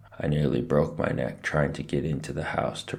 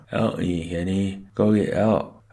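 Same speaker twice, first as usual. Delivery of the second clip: higher, louder muffled cry for help; muffled plea; 5 semitones higher, 4 dB louder than usual. A narrator's reading. Boy stuck to a mirror begs his brother, muffled plea. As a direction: call out with lips stuck fast.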